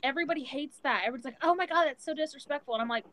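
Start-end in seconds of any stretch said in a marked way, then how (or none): 1.4-2.7 higher-pitched imitation of offended people; mock outrage. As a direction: mimic someone scandalized, pitched up. Mimics people offended by her swearing.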